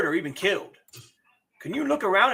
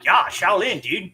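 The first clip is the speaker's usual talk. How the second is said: surfer voice; 4 dB louder, slower than usual. Pretend. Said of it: "goes to a surfer voice when I'm doing Shaolin".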